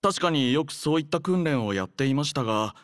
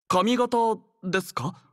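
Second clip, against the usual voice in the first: taken aback; 6 semitones higher than usual. Acted. Caught off guard by hairstyle question.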